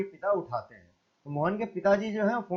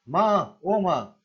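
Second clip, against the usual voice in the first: louder moaning call for mother; loud groan; 4 dB louder, much slower than usual. Acted. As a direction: groan out माँ in pain. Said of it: "Mohan जोर से कराह कर".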